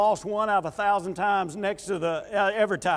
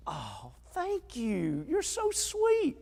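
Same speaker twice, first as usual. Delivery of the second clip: very high, breathy-free sweet thank-you in a mock wife voice; pleased wife; 5 semitones higher, 7 dB quieter, slower than usual. Wife thanks her husband for praising her shoes, mock high and slow. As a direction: play the delighted wife, pitched way up and slow. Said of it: "And she go".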